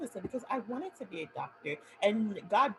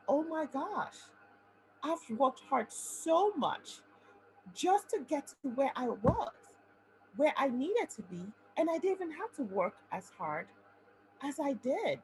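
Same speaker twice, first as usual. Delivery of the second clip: tearful relief; 5 semitones higher than usual. Retold or imitated. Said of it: "I actually cried".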